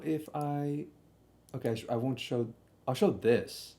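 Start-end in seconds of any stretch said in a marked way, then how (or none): none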